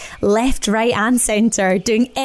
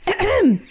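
throat clearing; 9 semitones higher than usual. Acted. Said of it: "shouted Badger".

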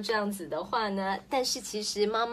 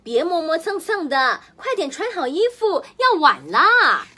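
impatient scolding; 6 semitones higher, 8 dB louder than usual. Acted. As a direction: scold a dawdling kid, rising in pitch. Mother hurrying dawdling child.

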